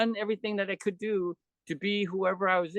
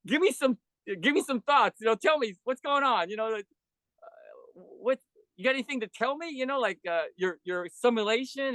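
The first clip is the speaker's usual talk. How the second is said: higher, urgent coaxing questions; eager pleading; 4 semitones higher than usual. Retold or imitated. Speaker urging dying friend Terrence for last thoughts, eager coaxing. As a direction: press him gently but eagerly for answers.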